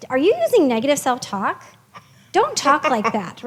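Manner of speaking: mildly stern scolding, slowing on the last words; a light hint of a lecturing parent; mock reprimand. How Jessie did not say it, mild mock scolding. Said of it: "She didn't reprimand me".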